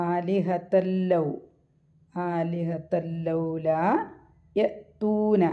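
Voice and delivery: ആലിഹത്തല്ലൗല recited slowly, the fatha on ta carried into the lam; slow, even tajweed chant; slow Quran recitation. Shown as a demonstration. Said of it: "താടെ മുകളിൽ ഒരു ഫത്തഹ വെക്കും".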